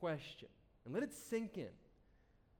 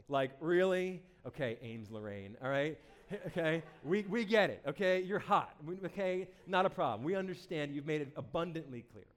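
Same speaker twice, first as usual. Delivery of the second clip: exasperated mock scolding; 5 dB louder than usual. Mocking a bragging poster by name.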